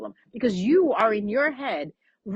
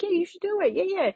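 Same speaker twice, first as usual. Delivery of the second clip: calm fake compliments; 4 semitones higher than usual. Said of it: "I'll be so calm with them".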